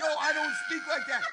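laughing mock "Yo, I don't speak like that"; mock Tommy voice. Mocking how Tommy talks to co-host, laughing. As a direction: parody the dude's slang through a laugh.

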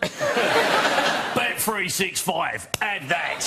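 drawn-out Cockney advert voice; hammed-up London geezer; mockney accent. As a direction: stretch it out in broad mockney. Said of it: "then in pure mockney".

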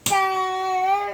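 loud stretched ta-da; excited reveal. Pretend. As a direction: announce it like a magic trick. Child's big reveal.

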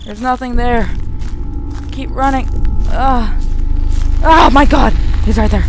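high, loud panicked shrieks; panicked screaming. Real, not acted. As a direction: scream in real terror. Slenderman appears, panicked screams.

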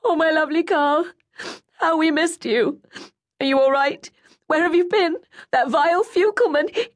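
high, loud, tearful mother's voice; crying mother. A narrator's reading. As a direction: sob out the relief. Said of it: "she began to cry".

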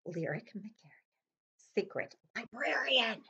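secret, whispered title reveal. Acted. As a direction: hush it like a secret agent.

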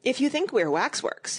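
lightly voiced chubby twin; a hint of a smug schoolboy; Tweedledum voice. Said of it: "he said".

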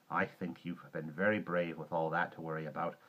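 put-on gentle praise for a frightened child; warm reassurance. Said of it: "she said warmly".

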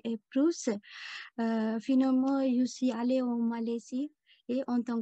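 Sri Lankan accent in halting French; French spoken with a Tamil-Sri Lankan accent; foreign accent in french. Real, not acted. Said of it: "mon français, c'est pas bien".

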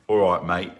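light mock English all right mate; a casual English greeting, lightly put on; English accent. Instructor then switches, imitating an English accent. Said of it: "That's English".

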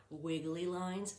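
slow, wavy, up-and-down voice; drawn-out wobbly sing-song; wiggly voice. Shown as a demonstration. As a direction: let the voice wiggle like the line. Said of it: "Do you hear my pattern?".

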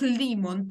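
лімон stressed on the first syllable, ЛІ; лімон read with stress before the last syllable; penultimate stress. Shown as a demonstration. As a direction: put the accent on ЛІ in лімон. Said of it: "наголос на передостанній склад".

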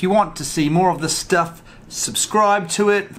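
lightly voiced YouTuber outro; a hint of a YouTuber sign-off, slow. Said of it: "I sound like one of them YouTubers".

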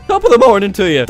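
mock Irish greeting with a voice crack. Leprechaun greets Tyler, Irish voice cracking. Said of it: "leprechauns always have this many voice cracks".

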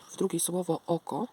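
words stretched by a yawn. Real, not acted. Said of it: "Przepraszam, ziewło".

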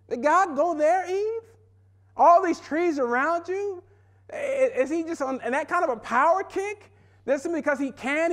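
high, sly serpent voice, teasing Eve; the serpent sowing doubt in Eve's ear, high and sly; coaxing serpent. Retold or imitated. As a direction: needle Eve like a smooth-talking snake. Preacher voices the tempting serpent.

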